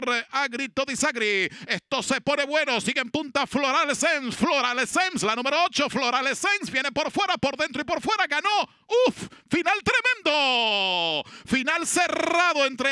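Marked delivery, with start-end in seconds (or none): 1.6-11.2 excited finish call. Real, not acted. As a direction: build to the winner. Close finish climax.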